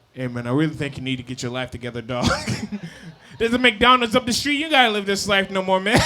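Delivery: low, fast preachy stranger; lecturing grown man. Retold or imitated. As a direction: talk him down, fatherly. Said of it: "that's being like".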